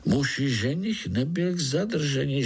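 ordinary delivery, nothing marked

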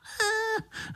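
squeaky high-pitched laugh; high mosquito laugh. Acted. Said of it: "rozesmál se Pišta".

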